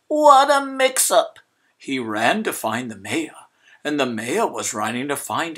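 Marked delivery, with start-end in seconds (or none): 0.1-1.4 loud, high alarmed cry; he panics at the mix-up; dismayed cry. A narrator's reading. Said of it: "cried Mister Pine".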